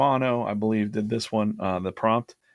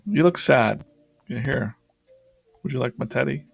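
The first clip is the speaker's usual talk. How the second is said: monster voice; 5 semitones higher, 4 dB louder than usual. Pretend. Monster drawing voiced comforting a boy.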